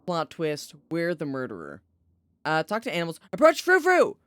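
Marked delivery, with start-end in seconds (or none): 3.3-4.2 very high, loud, gleeful cry; excited call. Real, not acted. Streamer squealing as she approaches the cat. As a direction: sing out the cat's name with delight.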